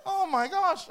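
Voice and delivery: high, loud, laughing; laughing disbelief. Real, not acted. Pastor joking to church about birds, laughing disbelief.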